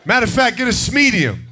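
indignant, up high; mock outrage at the size; father refuses to buy his son extra large. Father telling son smaller size.

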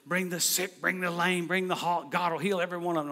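lightly mimicked crazy preacher, rhythmic list. Preacher friend summoning the sick on camera, lightly mimicked crazy preacher. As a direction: declare it with a touch of revival-preacher chant. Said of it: "he gets that crazy preacher sound".

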